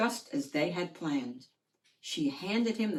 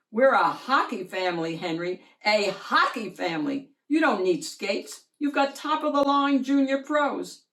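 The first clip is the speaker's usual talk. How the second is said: louder, firm hockey dad; insistent dad; 3 semitones higher, 6 dB louder than usual. Acted. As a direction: lay down the family law.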